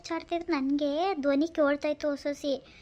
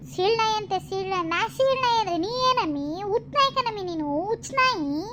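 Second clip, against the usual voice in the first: furious shout; 4 semitones higher than usual. Acted. Insulted woman yells back at her neighbour, higher and furious. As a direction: throw the insult back, outraged.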